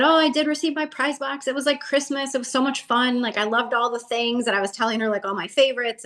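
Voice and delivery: retold gush, high and bubbly; high, gushing replay of her delight; gushing excitement. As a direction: relive the thrill of a gift box. Retold thrilled thanks to corporate.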